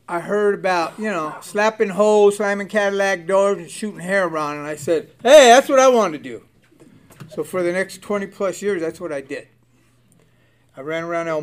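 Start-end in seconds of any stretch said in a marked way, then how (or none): 5.2-6.4 eager loud exclamation, pitched up; thrilled loud whoop; excited. Retold or imitated. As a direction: blurt it like a kid who's found his calling. Young inmate hears about pimp life.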